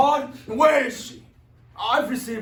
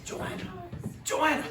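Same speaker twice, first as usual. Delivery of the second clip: calling out; 12 semitones higher, 4 dB quieter than usual. Acted. Calling for Joanna.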